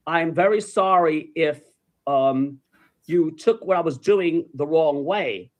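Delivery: slow, measured retold apology; deliberate, conciliatory reenactment; acted apology. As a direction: apologize carefully to a touchy stranger. Acts out careful apology to stranger.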